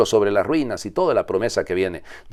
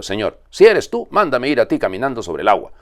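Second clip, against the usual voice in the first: pleading call; 5 semitones higher, 6 dB louder than usual. A narrator's reading. Peter calls to Jesus.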